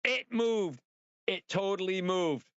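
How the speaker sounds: high, startled "it moved!"; mimicking his friend's high, excited cry. Best friend seeing the cam move, high excited cry. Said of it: "My best friend said".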